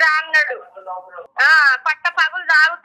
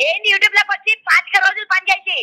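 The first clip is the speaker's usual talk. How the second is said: higher, heated demand to the caller; real anger pitched up; raised angry voice; 4 semitones higher than usual. Real, not acted. Woman on the phone angrily demanding proof, raised voice.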